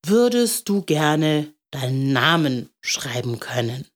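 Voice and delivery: understated solemn offer. A narrator's reading. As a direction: ask it with a touch of ceremony. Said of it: "sagte er feierlich".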